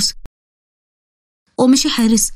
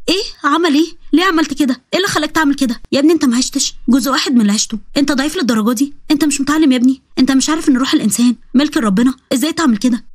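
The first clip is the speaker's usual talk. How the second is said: shocked scolding; 2 semitones higher than usual. Acted. Ghamza shocked at suicide attempt.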